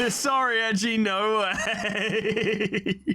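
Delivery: high, very slow drawn-out mocking no way; taunting refusal. The defendant mocking Edgy as he refuses help. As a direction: drag out the no way to taunt him. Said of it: "That, that's not in the script".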